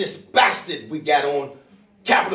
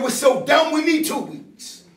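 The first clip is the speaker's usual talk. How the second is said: mocking quote; 8 semitones higher, 3 dB louder than usual. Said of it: "He said".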